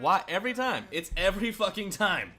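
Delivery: loud fed-up complaint; exasperated. Real, not acted. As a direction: vent at the broken game. Same glitch happens again.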